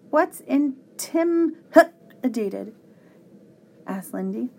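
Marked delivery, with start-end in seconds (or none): 0.1-2.7 put-on high slow little girl; child voice. A narrator's reading. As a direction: ask it like a small girl. Child asks question.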